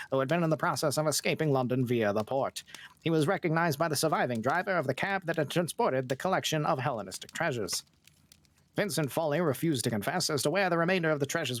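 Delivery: put-on old newsreel announcer read; old-timey news voice. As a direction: read it like a vintage radio bulletin. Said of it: "your best, uh, old-timey news voice?".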